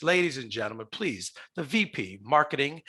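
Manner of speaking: game-show host welcome; announcer intro. Acted. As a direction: build up to the guest's name.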